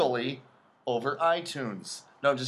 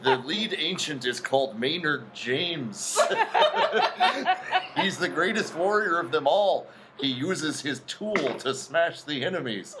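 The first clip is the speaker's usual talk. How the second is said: movie Indian voice. Retold or imitated. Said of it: "the movie Indian voice".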